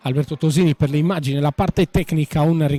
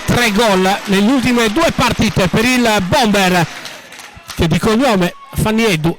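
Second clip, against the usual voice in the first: excited commentary; 3 semitones higher than usual. Real, not acted. Praising the scorer after goal.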